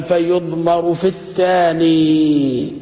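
reading the rule out very slowly; slow text reading. Shown as a demonstration. Teacher reads the book's rule aloud to students, very slow. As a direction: quote the grammar book word by word. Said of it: "قال".

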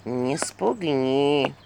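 low, very slow creaky whisper; creaky skull voice. A narrator's reading. Skull warns Vasilisa not to scare them, low and creaky. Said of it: "скрипучий голос черепуши".

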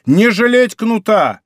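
high, slow, emphatic order; shouted command. A narrator's reading. Musketeer urging the coachman to use the whip, shouting. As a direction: call it out high, stretching each word. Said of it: "закричал он кучеру".

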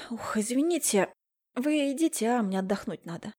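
sleepy words mid-yawn. A narrator's reading. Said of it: "девушка широко зевнула". (сонно, сквозь зевок)

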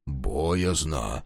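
soft, timid admission; fearful. A narrator's reading. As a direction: shrink back and admit fear. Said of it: "поёжившись, признался Плоскыня".

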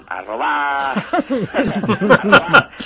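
robar shouted, rising high and loud through a laugh; joking correction. Real, not acted. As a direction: blurt out the real truth: robar. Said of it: "bueno, ahorrar".

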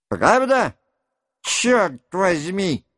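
sharp high outburst, slowing on the curse; shouting. A narrator's reading. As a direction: leap up and cry it out. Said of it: "закричал, вскакивая, Денисов".

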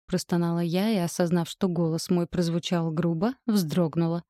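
ordinary delivery

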